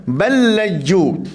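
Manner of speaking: slow drawn-out ballaju with doubled l; Quran recitation. Shown as a demonstration. Teacher recites to Quran class, slow ballaju. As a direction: recite ballaju slowly, merging the two lams. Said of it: "Lam jumpa dengan lam".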